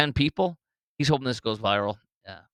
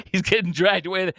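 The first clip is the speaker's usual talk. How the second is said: laughing; 6 semitones higher, 4 dB louder than usual. Real, not acted. Laughing at man dragged away.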